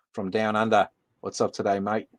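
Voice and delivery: light put-on Australian accent; a hint of playful Aussie; mock Australian accent. Streamer greets viewer down under, light mock Australian accent.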